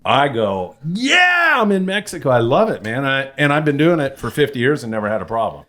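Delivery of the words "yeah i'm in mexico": retold retort. Retorting to people who fear Mexico.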